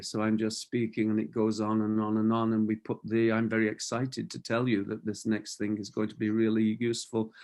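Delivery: quiet, flat, droning monotone with no range. A speaker demonstrating a lack of vocal range to listeners: flat monotone. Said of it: "a monotone or a, a lack of range of vocal lethargy".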